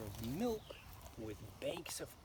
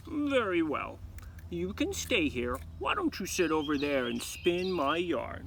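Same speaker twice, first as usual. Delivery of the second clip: Baba Yaga's command; 2 semitones higher, 7 dB louder than usual. A narrator's reading.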